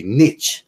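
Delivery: Nietzsche as "NEETCH", clipped at the end; French Nietzsche. Shown as a demonstration. Mocking how the French say it, NEETCH. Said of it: "if you say it in France".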